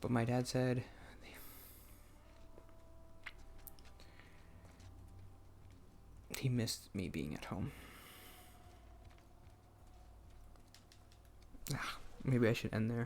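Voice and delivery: close to crying. Speaker stopping before tearing up again, on the verge of tears. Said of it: "I'm gonna start tearing up again".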